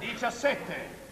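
slow drawn-out number call; bingo caller. Acted.

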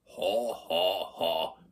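spoken-out mock guffaw; deep, rusty bully laugh. A narrator's reading. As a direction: voice the big boys' rusty ho-ho lightly. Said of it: "med deres dybe, rustne stemmer". (let spillet dyb, rusten drengelatter)

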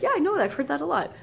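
bright sudden recognition; imitating a learner who knows it; excited recognition. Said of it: "you're like".

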